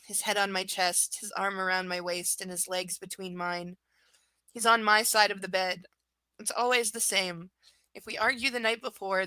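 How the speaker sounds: reading a novel aloud, steady; story narration. Acted. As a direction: narrate the chapter in a calm reading voice. Reads book chapter aloud.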